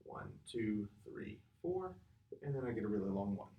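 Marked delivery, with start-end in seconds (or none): 0.0-1.9 steady counting to the beat; counted beat. Shown as a demonstration. Teacher counting the beat for students, evenly. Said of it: "every time I'm snapping".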